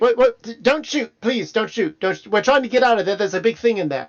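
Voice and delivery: high, fast frightened pleading; panicked surrender shout. Retold or imitated. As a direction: beg them not to shoot, panicking. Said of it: "He's like".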